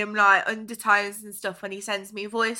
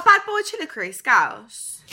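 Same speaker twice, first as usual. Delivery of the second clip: Scouse accent attempt. Shown as a demonstration. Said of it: "let me ... try".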